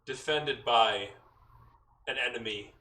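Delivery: a hint of a god's voice, long pauses; lightly voiced booming god. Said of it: "booming voice echo, deep, resonant, and imposing".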